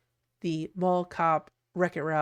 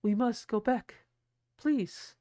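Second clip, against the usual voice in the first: Sally voice; 4 semitones higher, slower than usual. Retold or imitated. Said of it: "Sally's here being like".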